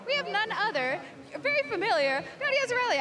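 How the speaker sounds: excited introduction. Real, not acted. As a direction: build it up to a big reveal of the guest.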